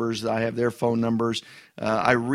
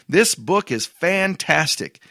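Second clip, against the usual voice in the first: slow, higher, emphatic "This book is fantastic"; slow and raised, every word stressed; read with emphasis; 5 semitones higher, slower than usual. Retold or imitated. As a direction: read it like it ends in an exclamation point. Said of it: "I read that with emphasis".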